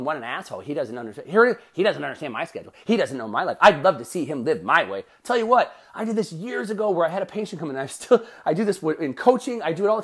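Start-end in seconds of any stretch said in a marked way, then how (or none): 0.0-5.0 grumbling listener. Retold or imitated. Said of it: "some of you are listening going".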